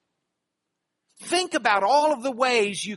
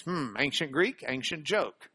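musing cartoon Greek; 7 semitones lower, 6 dB quieter than usual. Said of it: "Greek thinks".

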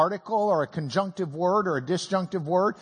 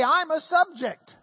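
lightly voiced talking word, a bit higher; a hint of a little sign speaking for itself; 5 semitones higher than usual. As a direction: announce it like a name tag. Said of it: "The sign can say".

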